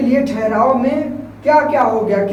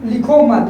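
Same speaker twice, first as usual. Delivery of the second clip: लिखो मत as one joined phrase; no break between लिखो and मत; लिखो मत read together; 4 dB louder than usual. Shown as a demonstration. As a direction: run लिखो straight into मत, then stop. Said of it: "हम इसको दोनों को एक साथ पढ़ेंगे".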